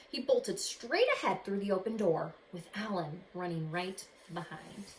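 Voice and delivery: expressive read-aloud storytelling; story narration. A narrator's reading. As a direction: read it like a picture book to kids. Reads picture book aloud.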